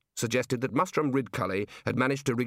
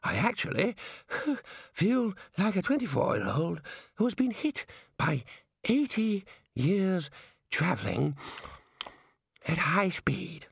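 put-on breathless old man; 7 semitones higher than usual. A narrator's reading. Aged Ponder describes how he feels, breathless elderly voice. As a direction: wheeze it out with long gaps.

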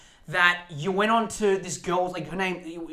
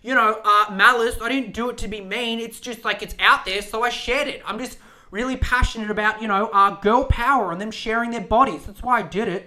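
higher, louder mock defensive excuse; mimicking Olivia; 3 semitones higher, 5 dB louder than usual. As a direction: play the innocent, overexplaining. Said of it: "And she's like".

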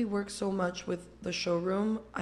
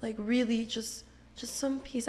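soft and weary; 3 semitones higher, 5 dB quieter, slower than usual. Real, not acted. Tired wish for calm.

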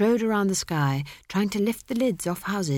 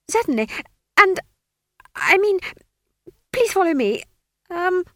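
high, flustered, stammering wizard; a jittery young wizard voice; nervous wizard; 13 semitones higher, 6 dB louder than usual. A narrator's reading.

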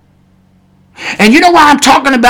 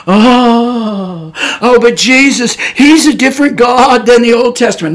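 lightly mocking, with a drawn-out opening groan; a touch of mock lament; mock objection. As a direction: imitate a doubter, dragging the first "Oh". Mock quote of objectors about Jesus.

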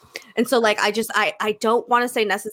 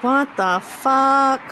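shocked; 5 semitones higher, much slower than usual. Real, not acted. Shocked at video.

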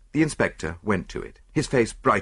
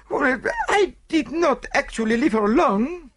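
reluctant; 3 dB louder than usual. Acted. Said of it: "admitted Celestine reluctantly".

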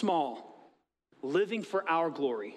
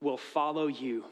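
sincere; 4 semitones lower than usual. Retold or imitated. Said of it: "His response is".

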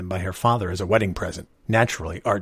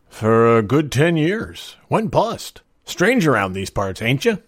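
slow, drawn-out small-town storekeeper; lightly voiced country old-timer; folksy old shopkeeper; 5 semitones higher, 5 dB louder, slower than usual. A narrator's reading.

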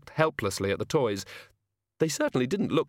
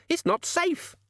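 far higher panicked shriek; shrieking mother; slower than usual. Acted. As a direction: let it fly up in alarm. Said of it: "she screamed".

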